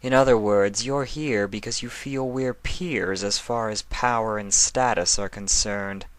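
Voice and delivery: cold, regal and stern. Acted. Nightmare Moon pinning down Discord, a stern regal voice. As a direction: lay it out like a verdict. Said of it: "replied sternly".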